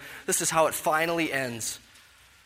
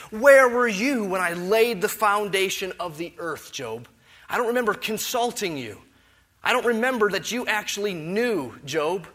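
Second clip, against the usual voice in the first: louder, higher, withering sarcasm; sarcastic rebuke; 5 semitones higher, 5 dB louder than usual. Acted. God questioning Job about creation, loud sarcastic rebuke. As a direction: needle him with mock forgetfulness. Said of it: "So we see the sarcasm in it".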